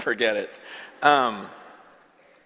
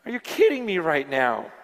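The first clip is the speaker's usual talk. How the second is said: lower, fully voiced incredulity; voiced disbelief; 6 semitones lower than usual. Repeats his disbelief, now voiced.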